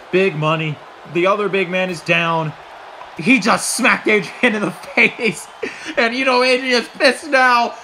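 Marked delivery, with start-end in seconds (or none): 6.0-7.7 high loud excited play-by-play; excited shouting. Real, not acted. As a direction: shout the big moment. Power bomb and near fall.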